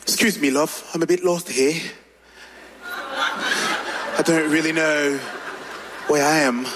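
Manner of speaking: low, smooth British-style pickup accent; changed English accent. Shown as a demonstration. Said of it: "si je change juste un peu mon accent".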